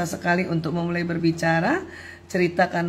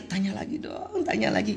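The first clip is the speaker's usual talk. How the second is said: quiet inner plea; 6 dB quieter than usual. Retold or imitated. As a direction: hush it like a secret hope. Wife's inner wish to husband.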